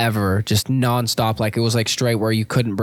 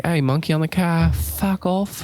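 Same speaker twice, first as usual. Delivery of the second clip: quoting a Vine; 5 semitones higher, slower than usual. Retold or imitated. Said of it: "That's an amazing reference".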